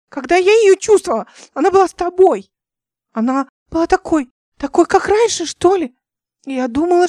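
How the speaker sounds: high and loud, rushed and upset; agitated. A narrator's reading. Взволнованно и громко. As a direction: Nika explaining how she lost El. Nika upset, explaining tearfully.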